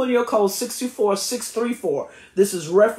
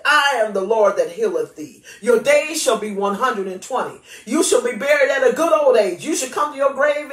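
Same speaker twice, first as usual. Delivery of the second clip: declaring the Lord's words with authority, rising toward the end; scripture proclamation; 3 semitones higher than usual. Acted. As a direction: give the scripture voice, don't just recite it. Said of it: "I am giving them voice".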